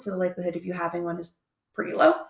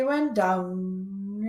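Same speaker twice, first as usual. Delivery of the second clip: stretched out very slowly; tracing the journey. Retold or imitated. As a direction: draw out "went down" like a long slide. Stretches words tracing the voyage.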